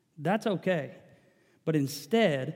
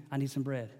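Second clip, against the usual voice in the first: asking; 3 semitones lower, 5 dB quieter than usual. Acted. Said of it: "now he's asking".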